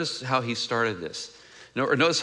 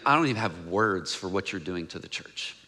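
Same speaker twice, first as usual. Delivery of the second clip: upset, lost for words; 7 semitones lower, 5 dB quieter than usual. Acted. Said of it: "He is so upset".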